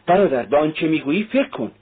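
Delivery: mildly sharp reproach. A narrator's reading. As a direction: pull brother up with a pointed warning. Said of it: "دنیا به تندی گفت".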